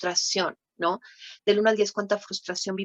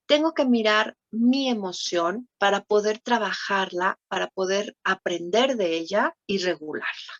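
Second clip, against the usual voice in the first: rushed through in one breath; said too quickly. Shown as a demonstration. Therapist rushing through steps before correcting herself, said fast. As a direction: run the list together fast. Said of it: "Yo la dije muy rápido".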